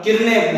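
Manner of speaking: किरणें with a dental न, run together as "kir-ne"; mispronounced किरणें. Shown as a demonstration. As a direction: say किरणें wrongly, clipping it to "kirne". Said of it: "उच्चारण शुद्ध न्या-, ज्ञान नहीं होने पर".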